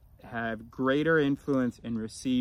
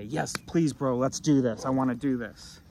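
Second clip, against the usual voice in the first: eager; 2 semitones higher, 4 dB louder than usual. Retold or imitated. Keen volunteer begging to take part, eagerly. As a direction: act out keen willingness to join in. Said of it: "There's an eagerness".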